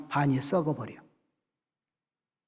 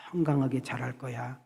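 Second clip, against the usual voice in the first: blessing words; 4 semitones lower, 6 dB quieter than usual. Retold or imitated. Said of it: "이렇게 좋은 말".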